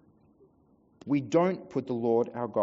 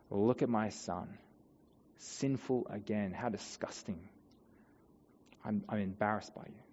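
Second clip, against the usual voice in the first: accusing Satan; 3 semitones lower, 6 dB quieter than usual. Pretend. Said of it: "Satan would like to whisper to us".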